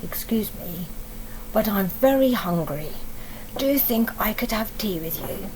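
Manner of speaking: low, polite tiger voice asking nicely. Acted. Tiger politely asking Sophie's mummy for tea, low and courteous. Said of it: "And the tiger said".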